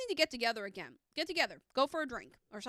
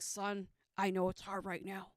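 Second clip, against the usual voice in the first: gravelly father figure; 3 semitones lower than usual. Retold or imitated. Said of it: "it's like this gravelly, like, almost like voice".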